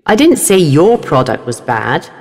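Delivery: "didn't" stressed with a rise at the end. Shown as a demonstration. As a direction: punch "didn't". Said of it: "sentences have changed meanings with different stress".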